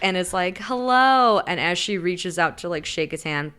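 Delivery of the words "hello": high, louder hello; raised-pitch acted greeting; imitated greeting. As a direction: sing out a put-on hello. Sick woman greets the visitor.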